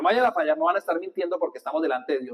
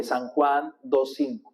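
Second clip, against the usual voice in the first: slow, deliberate memorizing chant; teacher's drill pace; slow recitation; 4 semitones lower, much slower than usual. Shown as a demonstration. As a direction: spell it out slowly for the congregation. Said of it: "dígalo cinco veces para que lo memorice".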